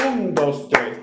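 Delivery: accented triplet count; first beat stronger. Shown as a demonstration. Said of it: "La primera es más fuerte porque tiene acento".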